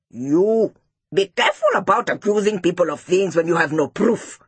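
lightly voiced scolding teacher; a touch of classroom reprimand; stern teacher. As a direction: warn the pupils firmly.

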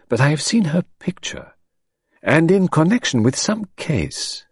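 put-on high French-accented voice, slowing as memory gropes; French detective. A narrator's reading. Detective recalling an old Belgian case, slowing down.

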